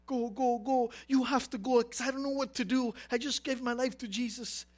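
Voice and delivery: urgent begging to a pastor, re-enacted; pressing, repeated plea, lightly acted; retold anxious plea. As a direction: act out a helpless new believer pleading. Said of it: "And I called my pastor".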